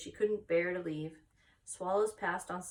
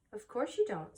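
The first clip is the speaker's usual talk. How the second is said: comforting; 4 semitones higher than usual. Acted. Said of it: "in a comforting voice".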